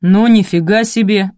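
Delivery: loud surprised man's bass; deep bass exclamation. A narrator's reading. Stranger opens door on crying women, bass. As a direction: blurt it in a deep male voice. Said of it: "раздался бас".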